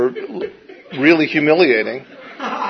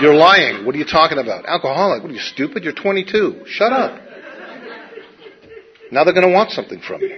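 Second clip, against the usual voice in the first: scornful inner voice; 3 semitones higher than usual. Retold or imitated. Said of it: "the part of me that's saying".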